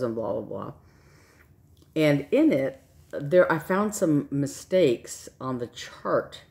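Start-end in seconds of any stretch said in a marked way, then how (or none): 1.9-6.4 talking through dry, chapped lips. Real, not acted. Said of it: "sorry about my chapped lips".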